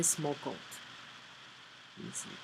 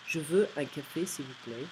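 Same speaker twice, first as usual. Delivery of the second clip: less rude. Shown as a demonstration. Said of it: "Less rude".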